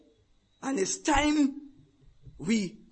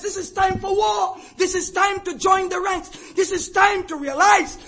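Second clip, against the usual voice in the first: lightly voiced apostle urging to war; a hint of a stern mentor calling to battle; Paul rallying Timothy; 7 semitones higher, 3 dB louder than usual. Paul's charge to Timothy.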